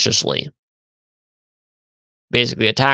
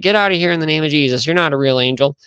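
quick, higher mock rebuke; retold rebuke; 5 semitones higher, faster than usual. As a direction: play a girl ordering an intruder out. Girl rebuking angel in story.

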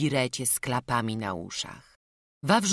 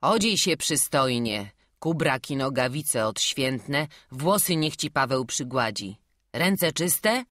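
put-on louder, firm old priest; stern canon giving orders; 2 semitones higher, 4 dB louder than usual. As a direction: command the boy briskly.

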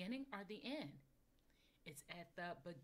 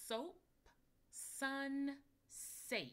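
words called out louder, each set apart; clear model words; 6 semitones higher, 5 dB louder, much slower than usual. Shown as a demonstration. Teacher modeling words for listening ears. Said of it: "What sound is the same".

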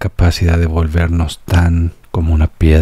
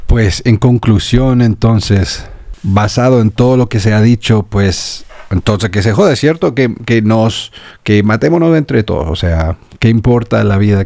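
higher, sarcastic mock conclusion; sneering send-up of the realists, voiced higher; mock nihilist; 4 semitones higher than usual. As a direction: parody the nihilists' reasoning, pitched up. Mocking summary of nihilist view.

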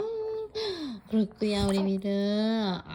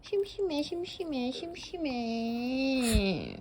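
whiny bored puppy voice; 3 semitones higher than usual. Pretend. Voicing the bored dog.

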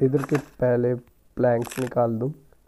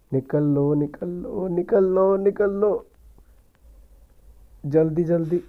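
each repeat climbs higher and more urgent; rising panic; 5 semitones higher than usual. Real, not acted. Gamer urging himself to escape as Granny comes, growing frantic. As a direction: hurry yourself out, building to frantic.

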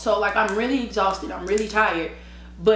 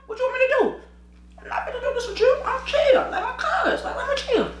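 exasperated high rant. Retold or imitated. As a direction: rant in disbelief.

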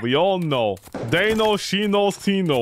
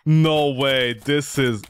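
deflated disbelief; 7 semitones lower, slower than usual. Real, not acted. Deflated after no ending.

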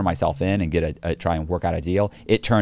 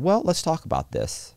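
higher, falsely coaxing agent voice; mocking the agent; 9 semitones higher than usual. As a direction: imitate her trying to sound reasonable. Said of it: "And she said".

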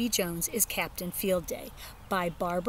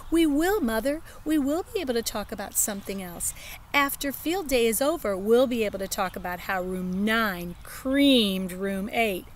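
put-on child voice; 3 semitones higher than usual. Child dances around mother.

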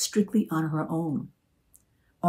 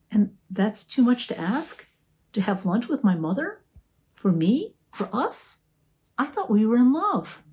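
a hint of wounded pleading, higher; lightly voiced hurt Arnie; 6 semitones higher, 3 dB louder than usual. A narrator's reading.

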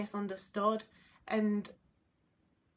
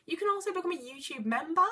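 goblin voice; 3 semitones higher than usual. Pretend. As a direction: play a scheming little goblin asking for cash. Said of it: "That's my goblin voice".

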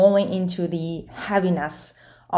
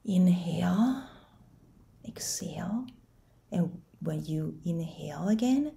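guided meditation. Acted. Coach leading listeners through facing their fear, guided meditation. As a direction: guide the listener inward, unhurried, leaving space to breathe.

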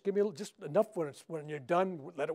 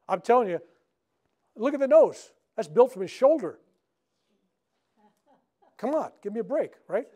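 loud and high, proud of the nose; emphatic showman's boast; excited insistence; 5 semitones higher, 9 dB louder than usual. Real, not acted. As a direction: push it out with amazed pride. Showing off his rebuilt nose.

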